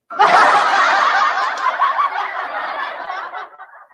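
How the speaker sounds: loud high burst of laughter; big laugh. Real, not acted. Vlogger laughing at her wild-child confession, loud laugh. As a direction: crack up at your own joke.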